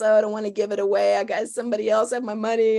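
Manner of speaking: tight, dismayed groan. Shown as a demonstration.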